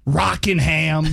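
very slow pundit impression; Stephen A Smith. Guest adding another small town, slow pundit impression. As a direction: stretch the town name right out. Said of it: "when he listed off all the small towns".

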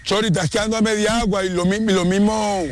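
high, quick call across the pitch; coach giving orders. Real, not acted. Coach tells player he is falling short, high-pitched orders. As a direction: correct a player from a distance. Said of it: "ya está dando órdenes y enseñando técnica".

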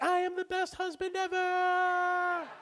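hushed mock self-praise; inner smug voice. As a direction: think it proudly to yourself. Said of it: "In my head, I'm like".

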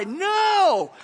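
a sudden loud, high No; emphatic no. Real, not acted. Pastor shouting down a self-righteous boast, loud. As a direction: cut the boast off hard.

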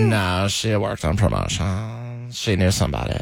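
put-on very slow, dragged-out California girl accent; put-on Valley Girl drawl. Keeps up Ashley's Valley Girl drawl.

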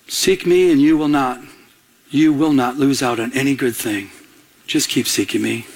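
retold tender counsel from God; gentle ministering. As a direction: reassure him, easing down to a low close. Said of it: "he ministered to my heart".

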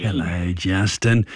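put-on low, creaky-old grandpa greeting; put-on grandpa hello. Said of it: "a grandpa when you said that".

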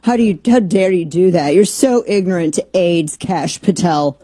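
lightly mocking scandalized critic; a touch of fake moral outrage. Voices critics' absurd outrage, mocking.

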